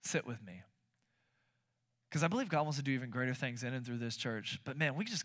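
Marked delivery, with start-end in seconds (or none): 0.0-0.6 gentle invitation. Shown as a demonstration. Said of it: "You just say".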